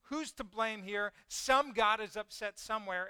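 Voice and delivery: mild mock panic; freaking out. Sailors seeking who's to blame, mild acted panic. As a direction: lightly imitate panicked sailors. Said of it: "they're, they're freaking out".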